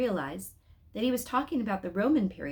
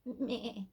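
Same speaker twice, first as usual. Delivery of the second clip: soft sheep bleat; 4 semitones higher, 7 dB quieter than usual. Acted. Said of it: "bleating crossly".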